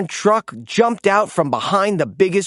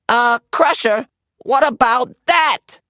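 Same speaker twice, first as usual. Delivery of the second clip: higher, louder startled warning; alarmed Pickle; 7 semitones higher, 4 dB louder than usual. A narrator's reading. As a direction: shout the warning as the boot flies at them. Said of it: "said Pickle".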